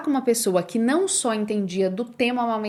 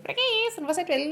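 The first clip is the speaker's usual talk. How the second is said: scoffing disbelief; 9 semitones higher, 3 dB quieter, much faster than usual. Retold or imitated. Scoffing at husband's formula.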